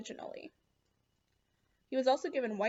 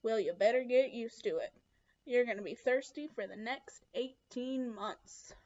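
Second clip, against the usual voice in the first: lightly voiced tough boss, slowing toward the end; a hint of a hard man laying down the law, drawing out the last words; tough camp boss. Camp boss warns thirsty new boy, lightly voiced tough character. Voices Mister Sir in story.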